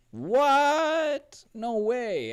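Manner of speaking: high, loud mock astonishment; mind-blown audience. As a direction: cry out in hammed-up disbelief. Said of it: "out of their mind, like".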